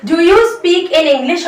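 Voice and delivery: very slow, word by word teacher model; slow model phrase. Shown as a demonstration. Teacher spelling out a question for Hindi learners, very slow. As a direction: stretch every word so learners can follow. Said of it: "हमेशा capital letter में लिखिए".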